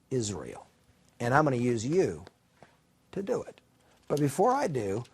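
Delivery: grave, spaced-out pronouncement; solemn instruction. Acted. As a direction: lay out a command deliberately. God gives Gideon his commission.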